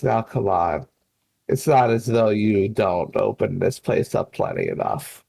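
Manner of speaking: understated low-voiced reproach; in character as Wynn. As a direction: drop the pitch for a mild chiding. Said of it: "And then Wynn just goes".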